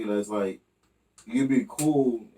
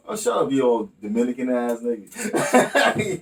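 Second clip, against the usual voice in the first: slow, laughing mock insult; teasing insult; slower than usual. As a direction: rib a friend through laughter. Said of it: "I'm like".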